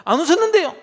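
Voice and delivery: high, loud feigned innocence; innocent denial. Acted. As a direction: deny it with a straight face. Sarah denies again. (시치미 떼는 사라)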